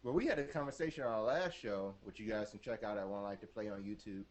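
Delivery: glitchy robotic audio. Real, not acted. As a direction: voice garbled like a robot. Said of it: "Did that robot voice come through?".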